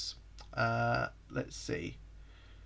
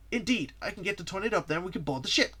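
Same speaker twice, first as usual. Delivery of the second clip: lightly voiced, higher sidekick; slightly perky sidekick with raised pitch; Tails; 6 semitones higher than usual. Sidekick plans to board the pirate ship, lightly raised voice.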